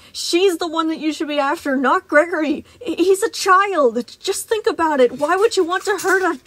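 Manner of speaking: put-on high, loud anguished plea, slowing on child; pained pleading. Freddy begging Moon to spare the child, anguished. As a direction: voice torn with pain. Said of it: "a horribly painful emotion tearing from his voice".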